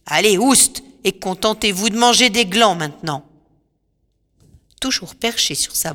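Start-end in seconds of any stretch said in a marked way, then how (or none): 0.1-3.2 louder, shooing the pigs away; a commanding call, chasing them out; witch shouting. Acted. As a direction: sorceress driving the pigs off with a shout. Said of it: "Circé leur crie".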